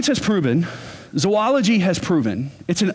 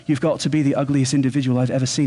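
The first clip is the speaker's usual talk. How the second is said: put-on British accent; 3 semitones lower, faster than usual. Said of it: "They've got this accent".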